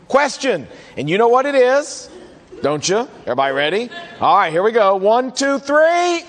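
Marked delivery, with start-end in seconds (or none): 5.0-6.2 high rising shout on the final count; pitched-up cue shout; called out count. Real, not acted. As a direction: call out three to cue the crowd. Preacher leads count for audience.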